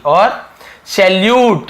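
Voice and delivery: सैल्यूट said slowly, with a clear यू in the middle; slow word demo. Shown as a demonstration. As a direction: draw out सैल्यूट to show the यू. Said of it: "तो यहाँ पर भी यू". (सैल्यूट को धीरे से, यू पर ज़ोर)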